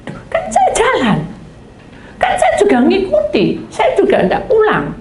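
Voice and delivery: high, laughing protest; laughing defensive whine. Retold or imitated. Servant excuses himself to God, high and laughing.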